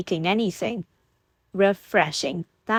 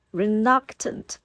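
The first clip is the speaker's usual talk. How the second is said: Reluctant slowed and rising in mock offense; mock effrontery; 4 semitones higher, slower than usual. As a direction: repeat Reluctant as if insulted, tongue in cheek. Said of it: "he repeated with mock effrontery".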